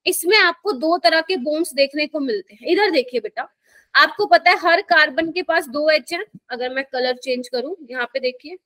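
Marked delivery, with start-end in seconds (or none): 0.1-2.7 deliberate, careful teacher pacing; slowly, for beginners. Real, not acted. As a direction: lay out each word so the class can follow. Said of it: "धीरे धीरे बोल रही हूँ". (आराम से, धीरे धीरे)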